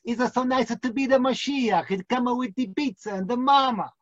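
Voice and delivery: mock Italian accent, singsong; hammed-up Italian charm. Rabbi imitates Italians welcoming Mashiach, mock Italian accent. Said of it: "The Italians".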